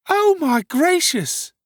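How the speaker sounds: high, drawn-out, loud wail; loud lamentation. Acted. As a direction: lament at the top of your voice, slowly. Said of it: "a great number of loud lamentations".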